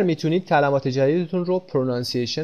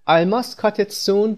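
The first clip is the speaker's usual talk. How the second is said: very slow, higher, stressing cut; slow, clear model sentence; 6 semitones higher, much slower than usual. Shown as a demonstration. Teacher modelling the sentence for Persian learners, very slow and higher. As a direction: spell it out slowly for learners, leaning on cut.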